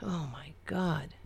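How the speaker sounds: whispered in dismay; disgusted whisper. Real, not acted. Host whispering in dismay at a politician's photo, whispered. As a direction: breathe it out, appalled.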